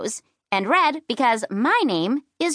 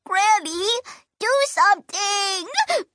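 high, slow tearful cry; a child begging through tears; sobbing plea; 10 semitones higher, slower than usual. Acted. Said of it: "I sobbed through the roses".

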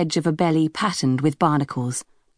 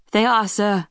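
higher, thin and reedy reply; 5 semitones higher than usual. Acted. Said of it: "It was a reedy voice".

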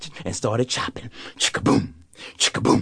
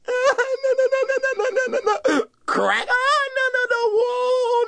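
shrill, much higher panic; boy crying out as the tree cracks; panicked cries. Acted. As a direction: wail as the tree gives way. Tree falling, Wally panics.

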